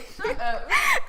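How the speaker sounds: a sudden high burst of laughter; squealing laugh; high laughing shout. Real, not acted. Laughs at own chat question.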